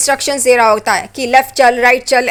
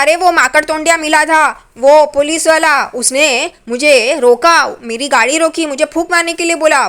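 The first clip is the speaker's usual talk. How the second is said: put-on drunken rambling; 3 semitones higher than usual. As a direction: drag the words like a tipsy man. Drunk husband recounts cop.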